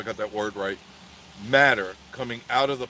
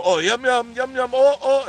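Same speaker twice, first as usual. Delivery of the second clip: much higher, louder giddy yum yum; giddy squeal; 12 semitones higher, 6 dB louder than usual. Retold or imitated. Princess squealing over the food, giddy and high. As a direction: squeal with delight like a thrilled girl.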